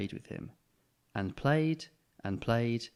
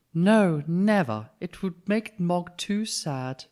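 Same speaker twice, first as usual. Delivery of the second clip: firm no; 8 semitones higher, 7 dB louder, much slower than usual. Acted. Mum answering firmly.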